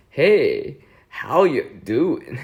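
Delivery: attempted high-pitched greeting; imperfect go at a high character voice; Hugo impression. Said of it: "the Hugo high-pitched voice".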